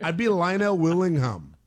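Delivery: playful put-on Canadian accent. Shown as a demonstration. Host claiming he could pass as Canadian, Canadian accent. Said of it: "my Canadian accent".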